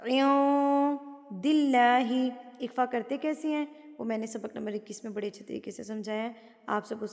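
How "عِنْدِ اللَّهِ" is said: نون hidden in the nose in عِنْدِ; nasalised hidden nun in عِنْدِ; slow عِنْدِ with nasal hum; ikhfa nasal. Shown as a demonstration. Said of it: "ناک میں چھپا لیا جاتا ہے".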